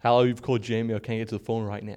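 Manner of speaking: lightly put-on American accent; slightly Americanized. Shown as a demonstration. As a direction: voicemail greeting in a mild American accent. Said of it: "That's a bit Americanized".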